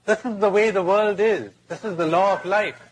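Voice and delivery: high, emphatic crocodile declaration; pronouncing crocodile. Acted. Crocodile justifies itself to the trapped boy, emphatic. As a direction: lay down the law as the crocodile.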